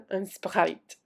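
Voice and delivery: un Sprite said with a French accent, nasal un; a little French accent on un Sprite. Shown as a demonstration. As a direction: say un Sprite like a French word, laughing. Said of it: "with a little French accent".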